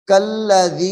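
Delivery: कल्लज़ी recited with a long dhal-ya vowel; lengthened dhal-ya. Shown as a demonstration. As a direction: stretch the ज़ी of कल्लज़ी. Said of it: "जाल को या के साथ मिला के लंबा करेंगे".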